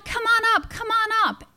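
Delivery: retold yelling. Family shouting down to mom from the top, light call. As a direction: sing out an easy invitation upward. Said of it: "they're yelling".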